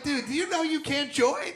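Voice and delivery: high-pitched mock disbelief; incredulous. Comic confronting a rapper about Nazis, incredulous high voice. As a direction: question him in a high, baffled voice.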